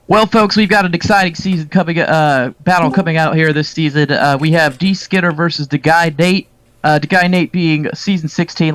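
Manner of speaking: lightly hammed sports announcer. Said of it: "let me do my announcer voice".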